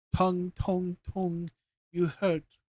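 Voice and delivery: high little cry from far off; tiny crying voice. A narrator's reading. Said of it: "cried far, far away a little voice".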